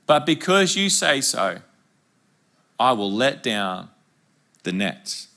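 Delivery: slow, gentle reading of Peter's reply; polite Peter. Retold or imitated. Preacher reads Peter's polite answer, slow and gentle. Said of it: "says this so politely".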